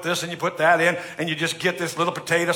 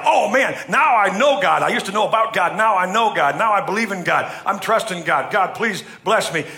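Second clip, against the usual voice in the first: new believer's joy; 3 semitones higher, 3 dB louder than usual. Retold or imitated. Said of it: "he's like".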